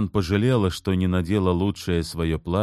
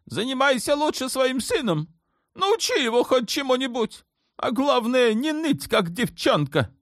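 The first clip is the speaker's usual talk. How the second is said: much higher, scornful sultan voice; sultan scolding. A narrator's reading. Sultan scolding Turhan about their son, high and scornful. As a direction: sneer at her and the boy. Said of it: "заорал на неё Ибрагим".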